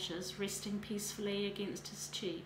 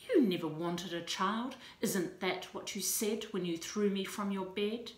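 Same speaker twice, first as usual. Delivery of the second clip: loud, bitter reproach; bitter accusation; 4 dB louder than usual. Acted. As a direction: throw the accusation at him.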